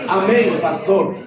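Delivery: a hint of a feminine voice; gently imitating her new voice; transformed voice. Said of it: "con la voz transformada".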